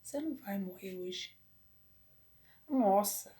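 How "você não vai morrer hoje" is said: calm inner voice. Retold or imitated. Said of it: "E era uma voz assim".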